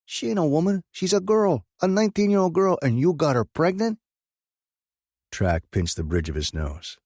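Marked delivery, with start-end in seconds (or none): 0.0-4.0 very high, loud outraged disbelief. A narrator's reading. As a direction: explode at the cousin in shock. Track outraged at pregnancy.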